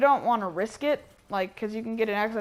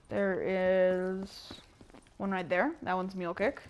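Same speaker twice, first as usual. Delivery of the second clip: flat, even droning tour-guide voice; droning monotone; slower than usual. Real, not acted. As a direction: drone on like a bored robot. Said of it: "I must sound like a droning robot right now".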